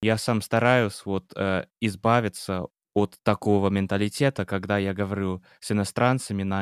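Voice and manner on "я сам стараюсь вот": ordinary talk, nothing marked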